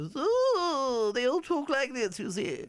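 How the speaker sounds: high, plummy upper-crust English; posh upper class English. Retold or imitated. Host showing how the upper class talks, high and posh. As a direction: look down your nose, very posh. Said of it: "she's upper class".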